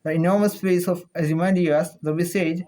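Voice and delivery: reading with a pen between the teeth. Shown as a demonstration. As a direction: speak around a pen held in the teeth. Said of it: "I'll be using this pen between my teeth".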